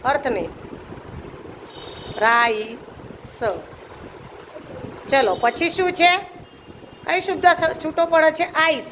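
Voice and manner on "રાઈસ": રાઈસ drawn out as "raa-ee", then a separate "sa"; sounded out. Shown as a demonstration. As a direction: dictate the sounds of રાઈસ slowly, low-pitched. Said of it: "ઉચ્ચાર".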